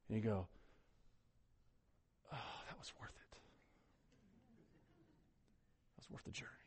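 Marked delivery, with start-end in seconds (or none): 2.3-6.5 soft breathy whisper of awe; whispered relief. Retold or imitated. Traveler at the beach after long drive, whispering. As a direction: breathe it out like a satisfied sigh. Savoring the ocean view.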